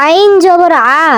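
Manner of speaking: "আ" squeezed from the middle of the throat; squeezed ain. Shown as a demonstration. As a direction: tighten the throat for "আইন জবর আ". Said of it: "আইন হলো হলকের মধ্যখান থেকে গলা চিপে".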